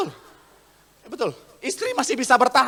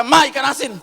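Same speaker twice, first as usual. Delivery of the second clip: third call, louder; 2 semitones higher, 5 dB louder than usual. Acted. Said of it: "Akhirnya yang ketiga".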